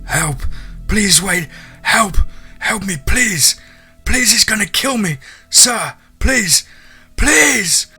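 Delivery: high, desperate pleading shouts; crying plea for help. A narrator's reading. Fleeing man begs hunter for help, crying high and desperate. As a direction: beg loudly for your life, voice way up high. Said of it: "I could see he was crying".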